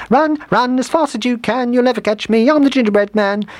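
very high, taunting little voice; gingerbread man's call. A narrator's reading. Gingerbread man fleeing the mice for the woods, high taunting call. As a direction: call the rhyme out high as you flee. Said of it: "he called".

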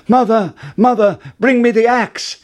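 high, loud urgent call. Acted. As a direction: shout down to mother in a hurry. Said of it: "called out".

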